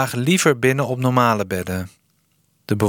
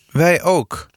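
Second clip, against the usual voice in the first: sharp, higher retort; snippy; 7 semitones higher than usual. Acted. Sanne snaps at pa over the rest day, curt and sharp. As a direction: snap it back at dad. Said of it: "zei Sanne pinnig".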